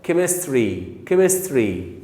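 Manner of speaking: "كيمستري" with an opening hard K. Shown as a demonstration. Teacher modelling CH in a chemistry word, hard K. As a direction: say "كيمستري" as ke-mis-tree, K first. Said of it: "أنطقها إيه بقى؟".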